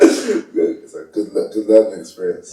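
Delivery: amused, chuckling reply; laughing. Real, not acted. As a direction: laugh it out while still talking. Laughing at the food joke.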